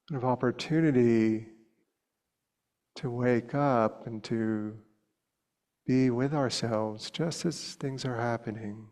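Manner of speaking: unhurried meditation guidance with long pauses; guided meditation. Real, not acted. Teacher inviting students to soften the body, unhurried meditation voice. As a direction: lead them gently, leaving long silences between short phrases.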